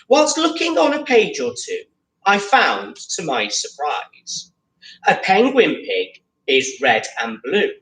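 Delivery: lively picture-book read-aloud; story reading to children. Acted. Teacher reads the picture book to pupils, lively read-aloud. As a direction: read the rhyming story to the class.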